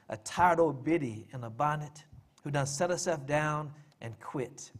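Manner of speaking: measured poem reading in a widow's persona; dramatic monologue read as verse; poem recital. Acted. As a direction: recite it line by line, with weighted stresses and pauses. Reads his poem aloud.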